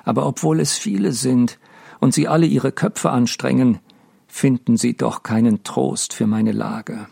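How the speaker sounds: grieving lament. Acted. Mendel to his dead wife Deborah, a heavy grieving lament. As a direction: pour out his grief to the dead.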